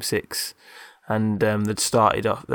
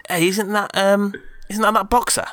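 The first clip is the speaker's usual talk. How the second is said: surprised recognition; 10 semitones higher than usual. Retold or imitated. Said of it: "Todd goes".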